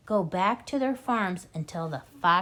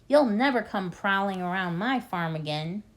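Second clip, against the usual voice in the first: taunting; 3 dB louder than usual. Acted. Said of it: "yelled Bogus".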